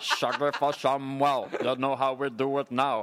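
drawling reggae infomercial host; a singer. Acted. Singer pitches a towel to buyers, impression of the singer. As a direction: sell it in the singer's put-on voice. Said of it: "I think that the singer should start".

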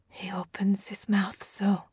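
slow unvoiced whisper; soft whisper. A narrator's reading. Tabinda warning the cadets, slow eerie whisper. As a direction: barely breathe the words, slowly. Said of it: "Tabinda whispered so softly".

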